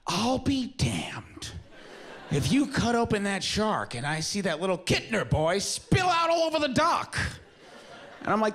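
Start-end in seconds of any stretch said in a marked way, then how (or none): 0.1-7.2 slow, high, hammed-up old-timey mayor building to a shout; seventies mayor. Mayor to Richard Dreyfuss, hammed-up slow drawl rising to a shout. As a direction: ham up a crusty mayor, building to a yell. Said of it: "the mayor goes".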